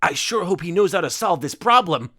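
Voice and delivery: stiff, wooden line reading; reading from an autocue. A narrator's reading. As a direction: deliver it like a bored actor reading cue cards. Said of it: "spoke as though reading from an auto cue".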